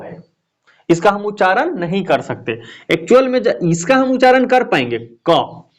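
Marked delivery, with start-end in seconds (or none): 5.0-5.6 क clipped to a bare k with no vowel after it; bare consonant sound. Shown as a demonstration. Teacher showing the class how bare क sounds with no vowel. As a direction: try to voice क alone, only the k with no trailing a. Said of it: "इसका उच्चारण हम नहीं कर पाएंगे".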